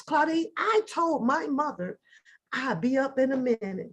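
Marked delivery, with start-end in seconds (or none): 2.5-3.9 lightly voiced sweetness; a hint of the good child; sweet compliant reply. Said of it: "just as sweet as I could sound".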